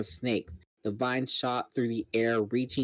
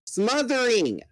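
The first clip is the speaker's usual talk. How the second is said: higher, urgent cry; gasping panic; 9 semitones higher than usual. Acted. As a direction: choke it out in panic. Swallowed by monster.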